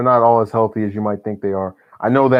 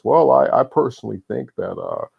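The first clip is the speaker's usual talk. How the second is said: lightly voiced hesitant presidential cadence; a hint of a folksy pandering politician; Obama impression. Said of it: "I'm gonna do my best politician impression ... the way that, uh, Obama would".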